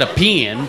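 puzzled echo of "pen" as PIN; echoed Texan pronunciation. Retold or imitated. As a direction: repeat "pen" as Texan pee-in. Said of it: "He tries to imitate me".

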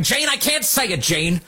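a hint of whiny, high pleading; mock pleading candidate. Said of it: "He's like".

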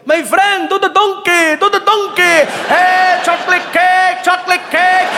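high, Arab-accented mock yell; accented heckler yelling. Men yelling jokes at comic, high accented shouts. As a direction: fans calling out requests in Arab-accented English. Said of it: "men start yelling my jokes".

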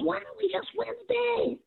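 imitating a high Boston accent. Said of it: "With his Boston accent".

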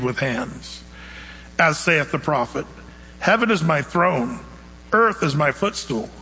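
slow, solemn reading of scripture. Acted. Preacher reading scripture to the congregation, slow and solemn. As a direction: let each verse land slowly and gravely. Reads Acts scripture aloud.

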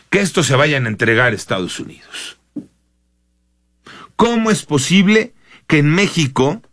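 imitating an incredulous complaint; queja retomada. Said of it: "Y la queja fue". (queja indignada, imitada)

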